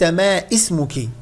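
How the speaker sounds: ما اسمك said ama ismuki with the alif sounded; wrong hamza. Shown as a demonstration. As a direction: show the error in ما اسمك. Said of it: "ليس". (ما اسمك بنطق الألف خطأ)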